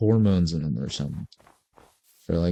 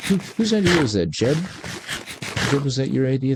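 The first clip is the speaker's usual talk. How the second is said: high, fast, pointed demand; mock aggressive; 4 semitones higher than usual. Real, not acted. Gamer mock-scolding the developer, pointed and fast. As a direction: call out Jeb like he's to blame. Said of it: "I'm sorry for being aggressive".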